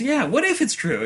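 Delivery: high-pitched, eager agreement; imitated gullible, hopeful cartoon voice; Deadpool. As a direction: chime in excitedly through a laugh.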